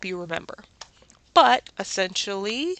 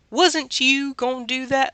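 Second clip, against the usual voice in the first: playful Southern accent, higher and louder; light Southern accent for fun; 5 semitones higher, 3 dB louder than usual. Shown as a demonstration. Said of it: "with a very Southern accent".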